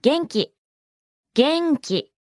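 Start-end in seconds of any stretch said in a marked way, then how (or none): 1.3-2.1 元気 drawn out in two separate beats; slow model. Shown as a demonstration. Teacher breaks down the word for fine to learners, slowly. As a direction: say 元気 slowly, beat by beat.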